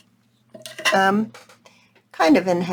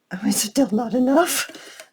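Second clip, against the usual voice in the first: breathy whispered aside; 3 semitones higher than usual. Real, not acted. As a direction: whisper it under your breath. Aside to herself.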